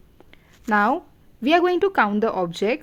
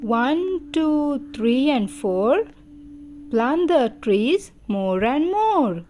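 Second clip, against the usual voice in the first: measured sing-song nursery rhyme; poem recitation; 3 semitones higher, slower than usual. Shown as a demonstration. Teacher teaching children a number poem, sing-song recitation. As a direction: recite in swooping phrases with pauses for children.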